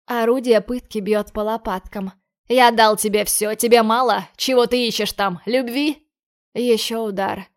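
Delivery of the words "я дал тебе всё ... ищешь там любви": angry. Acted. Lorenzo berating boy.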